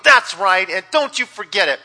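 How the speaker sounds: loud, self-satisfied lion; lion boasting to the hyena; smug lion. Acted. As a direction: puff up and gloat. Lion gloats again.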